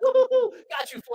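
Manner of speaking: loud, high taunting woo; high loud crowd taunt; mocking jeer. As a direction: jeer like teens scoring a point. Friends jeer after girl sits.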